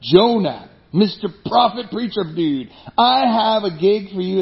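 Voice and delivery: booming, slow divine call; loud voice of God. Retold or imitated. God summoning Jonah, a loud slow voice. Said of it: "God in his loud voice says".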